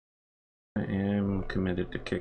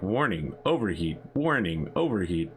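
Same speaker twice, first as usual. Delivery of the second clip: flat robotic warning announcement; computer voice. Retold or imitated. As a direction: read it like a ship's computer. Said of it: "a computerized voice that's like".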